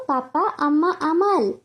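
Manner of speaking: put-on crying toddler. A narrator's reading. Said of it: "কেঁদে কেঁদে ডাকলো".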